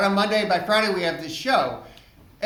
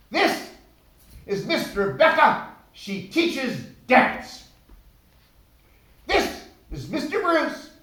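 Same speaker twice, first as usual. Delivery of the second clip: higher, louder hammed-up camp director, drawn out slowly; a showy boss introducing staff, slowed for effect; imitating camp director; 3 semitones higher, 3 dB louder, slower than usual. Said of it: "this man ... introduced me".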